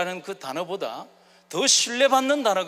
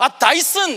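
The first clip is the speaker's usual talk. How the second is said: mock fed-up, angry, loud exasperated outburst; 7 semitones higher, 7 dB louder than usual. Retelling saying 다이슨 to a staff member: acting out past anger. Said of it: "저도 모르게 화가 나서 이렇게 얘기했습니다".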